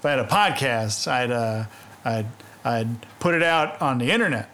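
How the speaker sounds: lightly imitated halting intonation; broken phrasing with spiky key words; Norm Macdonald. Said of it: "do his intonation".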